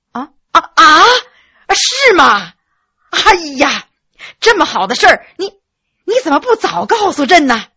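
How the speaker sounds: put-on thrilled at the news of a child; overjoyed. (喜出望外，声音又高又响)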